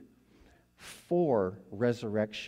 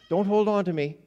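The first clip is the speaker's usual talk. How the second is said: loud, raised voice holding someone off; urgent protest; 8 semitones higher, 9 dB louder than usual. Retold or imitated. Jesus to Mary as she clings to him, loud protest. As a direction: firmly stop someone clinging to you.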